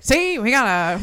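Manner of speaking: put-on slow, clipped old newsreel reporter; 1930s cub reporter. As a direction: do a fast-talking thirties newsman, lightly. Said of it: "talks like a nineteen thirties cub reporter".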